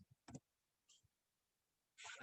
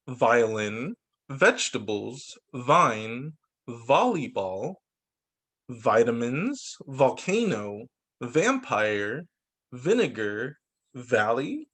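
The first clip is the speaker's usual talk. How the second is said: put-on reading words for kids; 3 semitones lower, slower than usual. Shown as a demonstration. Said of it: "Can you read these words with little V?".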